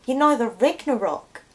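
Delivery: a friendly phone call in a put-on New Zealand accent; attempted New Zealand accent. Caller invites herself to the Ragnarok party, in a put-on New Zealand accent. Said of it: "for that attempt at your accent".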